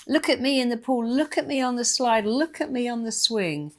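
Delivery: put-on high, loud child calling out; child calls to Mummy from the slide; little kid calling. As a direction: squeal for Mummy to watch. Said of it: "when they go".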